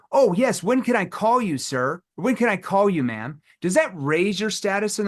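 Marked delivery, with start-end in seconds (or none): 0.1-3.4 needy eager. Retold or imitated. Salesman mocking a needy rep agreeing to any callback time, servile. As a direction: fawn over the prospect.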